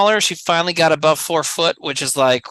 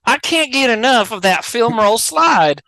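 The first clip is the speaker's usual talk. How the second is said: mock Arkansas guy; 3 dB louder than usual. Joking about the Arkansas guy on every ride, light accent. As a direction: play the Arkansas ride fan. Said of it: "a weird Arkansas person".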